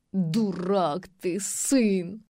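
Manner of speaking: slow, scornful, spat out; father's disgusted rebuke; contemptuous spit. A narrator's reading. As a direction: spit the insult at your son. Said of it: "презрительно выплюнул Тимофей Маркович".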